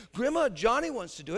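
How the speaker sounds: put-on high, fast sugary girl voice; smiling little sister. Sister Sally sweetly offering Johnny for the chores, high and fast. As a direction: say it with a sweet smile. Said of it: "Sally would smile and say".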